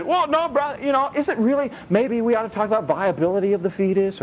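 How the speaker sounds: lightly voiced know-it-all brother; a hint of a smug debater; mock pious objector. Imitating a pro-choice churchgoer.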